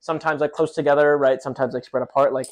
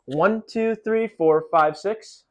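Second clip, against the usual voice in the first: counting out loud; 6 semitones higher, much slower than usual. Shown as a demonstration. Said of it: "the first six will look like this".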